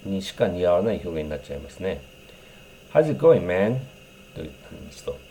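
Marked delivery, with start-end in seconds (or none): 2.9-3.8 relaxed buddy greeting, pitch jumps up on going; casual young guy's greeting. Shown as a demonstration. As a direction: greet a friend like a young guy. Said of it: "manをつけると". (若者っぽく気軽に)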